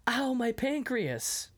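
high, slow comic wail; mock pained caveman. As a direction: whine it like a hurt caveman. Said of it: "I heard him go".

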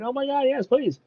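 high, breathless delight; mock-giddy high plea; excited squeal. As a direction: gush up high with joy. Excited girl quoted in retell.

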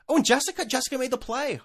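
high gushing mock parent voice; mock bragging parent. Mocking a bragging Facebook parent. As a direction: gush about the kids like a proud parent.

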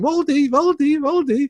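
high, sing-song dog call. Retold or imitated. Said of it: "people running around Germany going".

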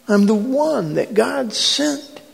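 impassioned plea, no longer shouted; earnest appeal. Acted. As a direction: plead earnestly as Jesus, slowing at the end. Jesus's appeal after the shout.

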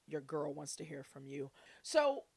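ordinary talk

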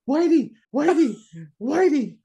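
squeaky, shrill-high mock cry of Whitey; high-pitched panicked yell. Imitating the big surfer spotting the shark, a squeaky high yell. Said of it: "in a really high-pitched voice started pointing".

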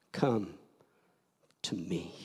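gentle hushed come to me; soft whispered call. Acted. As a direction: breathe it like God whispering. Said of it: "God whispers".

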